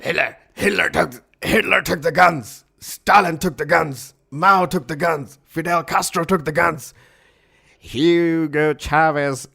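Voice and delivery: high, loud ranting tirade; Alex Jones. Acted. Co-host quoting a furious tirade on guns, ranting impression. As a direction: rant each accusation like a shouting radio host. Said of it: "your Alex Jones impression".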